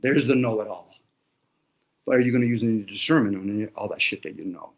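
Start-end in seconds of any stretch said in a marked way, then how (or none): 0.0-0.9 mocking. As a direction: murmur it with a smirk. Mocking the know-it-all.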